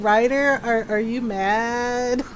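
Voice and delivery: imitating a hesitant, worried friend; slow, tentative question; concerned. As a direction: ask carefully, a touch worried. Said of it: "she was genuinely concerned".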